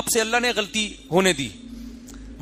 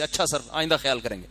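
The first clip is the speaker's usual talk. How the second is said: meek student reply; 5 semitones lower, 6 dB quieter than usual. Retold or imitated. Student politely accepting.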